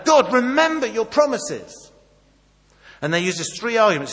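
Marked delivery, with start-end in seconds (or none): 0.0-1.9 high, loud, slow pleading; loud plea. Retold or imitated. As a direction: urge God to remember, at full voice. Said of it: "three petitions".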